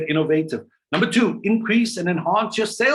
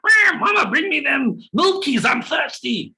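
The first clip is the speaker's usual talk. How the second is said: put-on crying baby; 10 semitones higher than usual. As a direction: wail like a hungry infant for milk. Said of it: "the other kid's".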